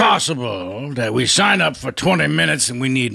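impersonated veteran actor; Robert Loggia. Acted. Impressionist asks the host about signing up, in an actor's voice. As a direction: put on a celebrity voice to negotiate. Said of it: "sounds just like Robert Loggia".

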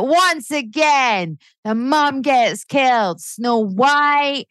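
hammed-up furious ranting about dead mums. Retelling her cinema outburst, hammed-up fury. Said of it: "I was furious".

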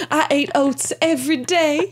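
lightly voiced confessing horse; mock horse. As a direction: play the horse deadpan and silly. Playing the horse absurdly.

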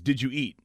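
DID YOU EAT slurred towards one word; run together as one word. Retold or imitated. Quoting a coworker, DID YOU EAT run together as one word. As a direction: join DID YOU EAT with hardly any gaps. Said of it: "But it was one word".

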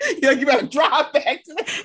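laughing through the words; laughing quote. Retold or imitated. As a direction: giggle the line out. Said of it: "repeating quote laughing".

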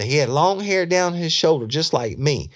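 high, loud imitation of an eager witness; excited insistence. Suspect describing long hair to detective, excited.

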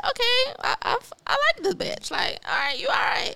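high, excited self-talk; playful self-cheer; mock hype-up. Imitating self hyping herself up.

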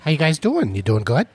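lightly imitated casual actor; Vince Vaughn. Co-host trying out his celebrity impression, casual chummy greeting. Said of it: "is that your Vince Vaughn".

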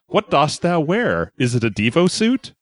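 slow, high, grand Shakespearean delivery; hammy stage actor. Retold or imitated. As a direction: declaim it like a ham actor. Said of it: "he says".

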